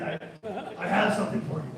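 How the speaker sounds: creepy random-caller impression; shady voice. Friend calling a stranger about found money, shady voice. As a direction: leave it like a sinister voicemail. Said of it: "getting a phone call from a random guy".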